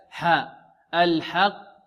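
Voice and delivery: "الحق" with a clear, untilted a after haa; pure open haa. Shown as a demonstration. Teacher corrects the haa, open a in "الحق". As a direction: keep the haa in "الحق" open, not tilted to e. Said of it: "ولا نقلل الحاء هنا".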